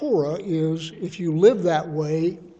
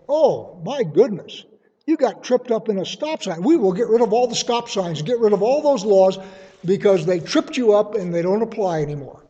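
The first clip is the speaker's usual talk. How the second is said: put-on fuss, pitched up; mock dismay; 3 semitones higher, 4 dB louder than usual. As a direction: act out an exaggerated, indignant overreaction. Mock quote of what Paul isn't saying.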